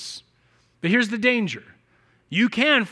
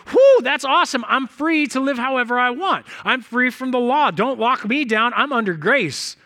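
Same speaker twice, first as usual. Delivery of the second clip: relieved excitement; 3 semitones higher, 3 dB louder than usual. Retold or imitated. Christians reading the text, mock cheering that they are free. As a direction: cheer like you just got let off the hook. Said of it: "so many Christians have seen this text and gone".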